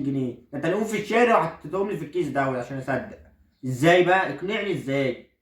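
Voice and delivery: a son protesting he will never wear them; indignant son. Acted.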